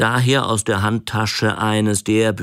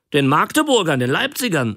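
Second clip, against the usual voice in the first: put-on boastful old man; 7 semitones higher, faster than usual. Old sausage seller boasting.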